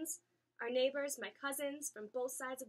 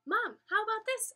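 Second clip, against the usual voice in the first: excited asking; 11 semitones higher, 11 dB louder than usual. A narrator's reading. Child excitedly calling to mom.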